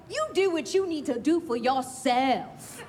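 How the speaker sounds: a badly faked English or New Zealand accent, barely there; half-hearted English accent through a laugh; failed English accent. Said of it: "I know that's not the accent".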